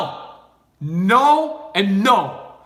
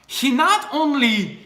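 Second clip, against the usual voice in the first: higher-pitched, mildly gushing imitation; impressed reaction; 5 semitones higher than usual. Russian girl reacting to a compliment, impressed. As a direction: act out being impressed. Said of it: "person would be like".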